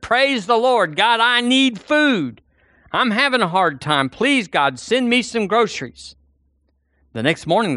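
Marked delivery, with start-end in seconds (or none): 0.0-6.2 pleading shout. Acted. Old lady shouts her prayer from the porch, high and pleading. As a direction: call out to God, begging for food. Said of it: "She stood on her porch and shouted".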